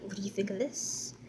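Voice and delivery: soft questioning voice. Shown as a demonstration. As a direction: say it gently and low. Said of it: "whisper repeat".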